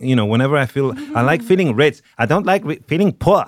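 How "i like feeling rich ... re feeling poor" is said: light mock socialite accent, a touch higher; half-joking impression of a snooty heiress; Anna Delvey accent. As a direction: lightly put on a haughty heiress lilt. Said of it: "I feel like Anna Delvey saying".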